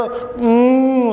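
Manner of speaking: imitated sob. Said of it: "ಹ್ಞೂ ಅಂತಿದ್ದು ಅಳಾಕತ್ತು".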